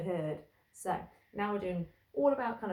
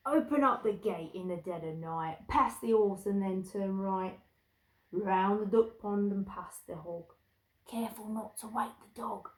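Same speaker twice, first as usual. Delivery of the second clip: lightly voiced London thief; a hint of London villain accent. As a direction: give directions like a London crook. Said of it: "I think they're from London".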